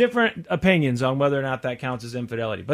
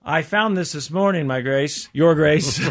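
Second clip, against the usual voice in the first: humble servant. Shown as a demonstration. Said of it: "This is an example".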